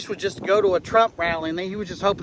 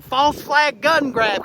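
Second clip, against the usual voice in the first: slow, high mock holler; mock yell; 6 semitones higher, slower than usual. Witness shouting conspiracy out of habit, mock yell. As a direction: yell it out like a slogan. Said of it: "I yelled".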